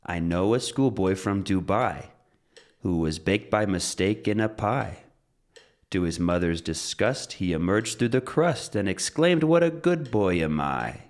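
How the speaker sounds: limerick recital. Shown as a demonstration. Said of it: "Let's talk about a little schoolboy".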